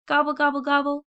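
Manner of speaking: high, loud gobble gobble like turkeys; turkey gobbling. Acted. Turkeys on the wagon calling out, high loud gobbling. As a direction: squawk it out like a wagon of hungry turkeys. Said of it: "cried the wagon load of tired and hungry turkeys".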